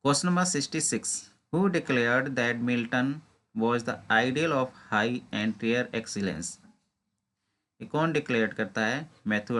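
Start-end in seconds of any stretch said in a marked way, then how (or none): 0.1-6.5 slow, deliberate reading of an exam question. Acted. Teacher reading a quiz question to exam students, slow and deliberate. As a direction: read each word out carefully, like dictation.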